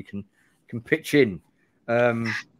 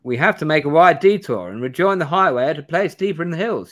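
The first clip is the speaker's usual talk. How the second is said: Bannerton's caution; 4 semitones higher, 6 dB louder than usual. Acted. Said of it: "he says".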